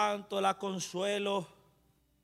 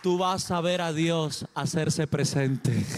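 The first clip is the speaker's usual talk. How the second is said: stronger, louder second telling; louder repeat; 6 dB louder, slower than usual. Shown as a demonstration. Preacher repeats the promise to the congregation, louder. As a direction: drive the promise home with more voice. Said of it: "Vuelvo y te lo digo".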